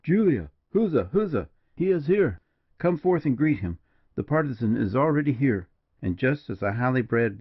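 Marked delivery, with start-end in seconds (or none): 0.0-5.7 high, swooping cry of huzza; joyful calling out, pitched well up; full, clear exclamation. A narrator's reading. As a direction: hail her jubilantly in a full, manly tone. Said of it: "exclaimed in a full, manly, and clear tone".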